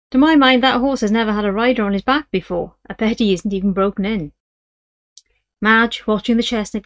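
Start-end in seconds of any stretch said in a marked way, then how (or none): 0.1-4.3 smug verdict. Acted. Partner's verdict after laughing.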